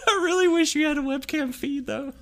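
high, loud giggling voice; laughing. Real, not acted. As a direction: squeak it out mid-laugh. Laughing high after laughing fit.

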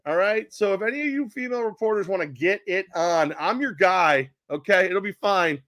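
hammed-up coach at a press conference, pitched high; Udoka. Newly hired coach addressing reporters, in a hammed-up high, brash voice. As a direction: announce it brashly, high and emphatic. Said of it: "like, the f-, press conference".

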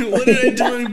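high, loud imitation of a wronged drunk; hammed-up tearful protest; mock whining. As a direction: whine it through laughter. Mimicking the crying girl again, laughing.

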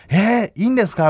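retold delighted surprise. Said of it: "みたいな感じで".

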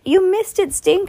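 high, loud teasing; high excited taunt; excited Judy. A narrator's reading. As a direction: gloat at her brother. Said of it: "Judy ran up to Stink".

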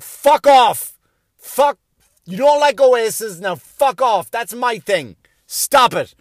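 loud, high mock-angry outburst; indignant teenage outrage. Comedian as his younger self to singing parents, indignant shouting. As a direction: shout them off, fiercely territorial.

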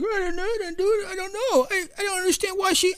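high mock denial, hammed-up; over-the-top innocent act. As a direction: squeak it out like someone faking innocence. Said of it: "you go over the top".

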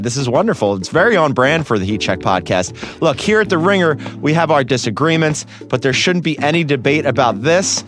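upbeat radio commercial read. Acted. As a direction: sell it like a sponsor spot. Reads sponsor ad.

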